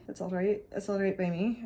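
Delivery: light Scottish lilt on all right; playful Scottish accent, lightly done; a hint of Scottish brogue. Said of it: "I like doing accents".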